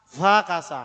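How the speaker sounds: Befakasa with a near-silent first syllable; correct pronunciation. Shown as a demonstration. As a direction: say "Befakasa" almost as "fakasa", stressing fa. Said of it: "Jadi kayak nggak bunyi". (Befakasa dengan "be" hampir hilang)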